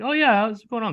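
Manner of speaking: high, eager customer-service voice; helpful employee. Retold or imitated. Employee answering the customer, high eager helpful voice. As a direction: play the overly helpful worker.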